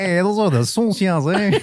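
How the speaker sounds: high, put-on chola drawl. High chola voice joking about the old lady. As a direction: sound like a tough homegirl.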